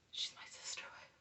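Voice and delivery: imitating a barely audible whispered correction; mock whisper. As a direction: whisper it very softly, as a retold aside. Retold muttered reply to slip.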